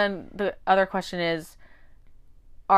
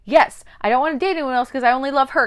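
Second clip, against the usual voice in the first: mock confession; 7 semitones higher, 5 dB louder than usual. Thomas confessing love.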